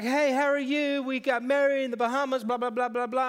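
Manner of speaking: boastful bride. Retold or imitated. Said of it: "she's like".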